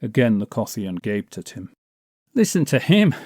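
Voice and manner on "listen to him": high, loud jeering call to the crowd; mock him out loud for all the tavern to hear; scornful shout. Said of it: "he shouted jeeringly".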